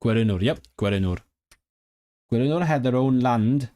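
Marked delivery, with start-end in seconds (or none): 2.3-3.7 English with a tiny tinge of Welsh accent; slight Welsh accent. Real, not acted. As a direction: let a little Welsh lilt slip into the English. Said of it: "a tiny tinge of a Welsh accent".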